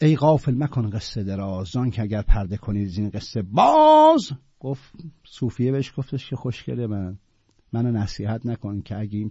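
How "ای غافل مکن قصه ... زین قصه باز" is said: measured classical verse recital; poem recitation. Acted. Teacher reciting the Sufi's verse to students, measured recital. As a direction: let the couplet ring out evenly.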